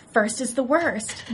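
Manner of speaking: slow, lightly put-on scheming tone; Dee's scheming voice. Dee telling Charlie who was born first, lightly sly and slow. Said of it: "Dee's like".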